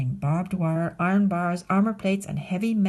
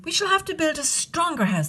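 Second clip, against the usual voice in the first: little wolves; 9 semitones higher than usual. Acted. Wolves decide together.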